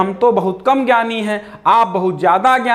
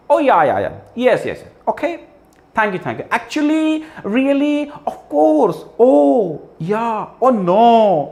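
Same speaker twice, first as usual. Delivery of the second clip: mock English speaker; 3 semitones higher, slower than usual. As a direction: ham up a show-off English talker. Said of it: "अंग्रेजी बोलने के लिए". (अंग्रेज़ी झाड़ने वाले की नकल)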